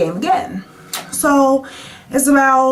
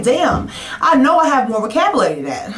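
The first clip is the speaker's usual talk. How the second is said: amused, laughing through the words; 5 semitones higher than usual. Retold or imitated. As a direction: laugh while you say it. Laughing at her own confusion.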